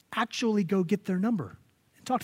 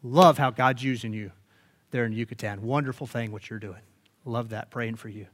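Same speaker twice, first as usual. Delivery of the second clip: sample reply note; 5 semitones lower than usual. Retold or imitated. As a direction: read it like a short loving note. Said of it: "just, hey, reply".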